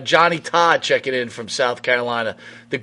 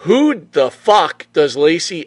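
angry imitated rant; 3 semitones higher, 4 dB louder than usual. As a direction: rant in her voice. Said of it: "voicing Slaughter's daughter".

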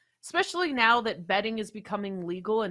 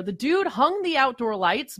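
usual speaking voice

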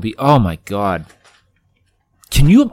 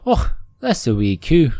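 imitated toddler Scots, higher and louder; higher Scottish "och"; Scottish accent; 4 semitones higher, 5 dB louder than usual. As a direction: proudly proclaim it in mock Scottish, pitched up. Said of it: "he'll walk around the house going".

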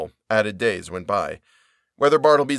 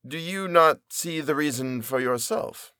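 indifferent reply; 4 semitones higher, 3 dB quieter, slower than usual. Acted. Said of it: "he indifferently replied".

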